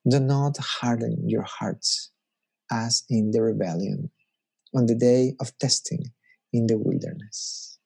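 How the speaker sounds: slow, weighty scripture read; slow solemn reading. Shown as a demonstration. Preacher reading the verse as solemn warning. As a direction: let each word land slowly. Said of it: "you can read that in very different ways".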